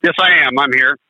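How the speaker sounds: caller breaking up on the line; crackly phone line, dropping out; crackly cordless phone. Real, not acted. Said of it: "Oh, you're breaking up".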